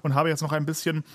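talking with food in mouth; chewing while talking. Real, not acted. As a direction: speak through a mouthful. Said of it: "Ich, ich esse gerade".

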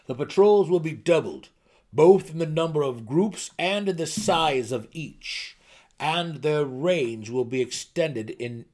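a king steadying his nervous court; commanding gnome ruler. Acted. King issues patrol decree.

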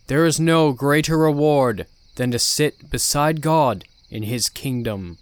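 slow, loud, solemn preacher; cult leader preaching. Acted. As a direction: preach with grand calm authority.

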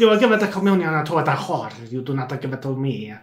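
lightly put-on Italian accent with a laugh in it; mock Italian screech. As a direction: give a hammed-up rant to the priest. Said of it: "her dialogue is screeched".

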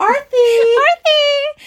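high, loud call; shouting a name. Acted. Calling out the name.

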